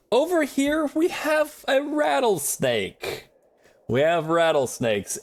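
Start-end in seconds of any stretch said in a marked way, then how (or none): 0.1-3.3 dramatic announcement. Acted.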